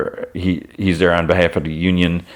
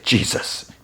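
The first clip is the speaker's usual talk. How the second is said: breathy groaned exclamation, little voice; retold groan; 4 dB quieter than usual. Boss reacting to his drink, groaning. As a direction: groan it low under the breath.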